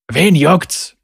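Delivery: thug's mildly squawked dismissal; squawking. Acted. Stocky thug brushing off his partner, squawking. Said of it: "quäkte sein Partner".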